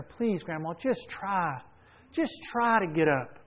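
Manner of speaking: lightly acted plea, pitch lifting; mild mock begging. Granddaughter urging grandma to stand, mildly begging imitation. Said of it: "granddaughter's begging her".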